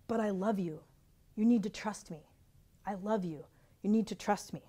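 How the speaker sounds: soft, calm reassurance; gentle reply. Retold or imitated. God answering her pleading, a soft reassuring voice. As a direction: answer softly, with quiet love. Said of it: "I heard this phrase from God".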